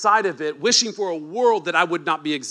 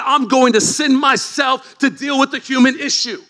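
God proclaiming, loud; 5 semitones higher, 5 dB louder than usual. Retold or imitated. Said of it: "But God said".

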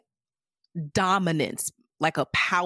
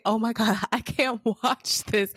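cringing reaction; 4 semitones higher than usual. Retold or imitated. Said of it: "I was like".

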